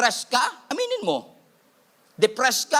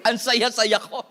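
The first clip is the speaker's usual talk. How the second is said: laughing mock cheer; slower than usual. Mock answer about hated job.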